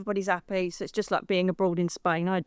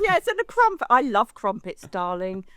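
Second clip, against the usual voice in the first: mock posh; 2 semitones higher than usual. Answering the host's crumpet joke in a mock-posh voice. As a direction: play the grand English lady about crumpets.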